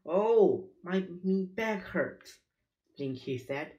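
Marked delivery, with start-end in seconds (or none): 0.1-2.4 whining complaint. A narrator's reading. Pirate complaining of his back while digging, whining. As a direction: moan and grumble high up about your aches.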